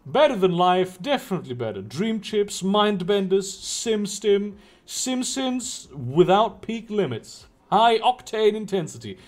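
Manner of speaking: lightly voiced grinning hustler pitching wares; a hint of a slick dealer; shady street dealer. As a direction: sell it like a slick pusher with a lopsided grin.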